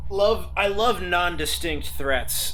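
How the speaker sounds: dry sarcasm about the vague threat; sarcastic. Real, not acted. Player answers the GM's creepy hint with sarcasm. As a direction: say it like you love it, but you don't.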